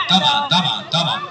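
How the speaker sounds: very low puppet voice; Aragoz puppet. Acted. Puppet repeating the host's lesson, Aragoz puppet voice. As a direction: echo it as a puppet, far below your own pitch. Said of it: "الأراجوز ده وهو بيرغي".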